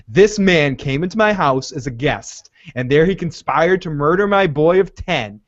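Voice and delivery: mildly dramatic imitation of an accusation; intense monologue. Mother accuses the man before the knights, mildly acted intensity. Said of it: "when she gets all intense".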